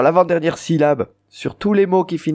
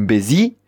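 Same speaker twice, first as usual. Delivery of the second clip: "bézi" rising on a strong "zi"; stress on last syllable. Shown as a demonstration. Teacher applying the rule to voisin, stress on "zi" in "bézi". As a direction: lean on the final "zi" of "bézi". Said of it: "l'accent est sur cette, la dernière syllabe".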